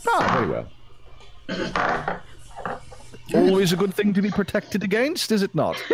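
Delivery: genteel voice through a laugh; laughing in character. Acted.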